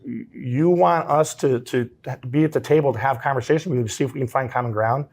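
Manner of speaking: mildly restrained reproach, voiced calmly; calm, measured retelling. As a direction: retell her calm challenge without raising the voice. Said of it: "she just calmly said".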